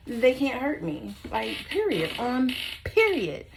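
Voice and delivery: a firm, unbothered period; defiant retort. Retold or imitated. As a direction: dig in and refuse to be scared.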